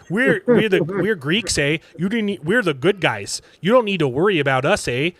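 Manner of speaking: lightly put-on Canadian accent; a hint of comic Canadian, leaning on "eh". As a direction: reassure them in a mock Canadian voice. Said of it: "in a Canadian accent".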